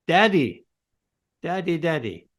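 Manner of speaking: put-on bright eager call of a small child; child calling daddy. Children greeting their father at home, eager call. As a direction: call out like a delighted little kid.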